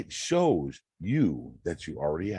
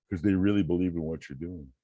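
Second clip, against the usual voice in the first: talking through a yawn; words stretched by a yawn. Real, not acted. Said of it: "yawning a bit".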